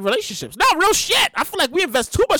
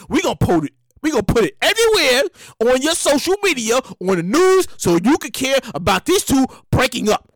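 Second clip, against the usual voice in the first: 1 mock media voice. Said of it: "That's why they be like".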